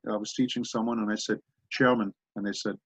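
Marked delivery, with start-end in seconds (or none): 1.7-2.1 "German" pronounced "Chairman"; German-accented "German". Shown as a demonstration. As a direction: demonstrate "Chairman" as a German would say "German". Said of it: "the word German is Chairman".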